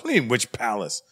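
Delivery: indignant echo of the question. Acted. Comedian to interrogator, indignant disbelief. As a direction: throw the question back at him.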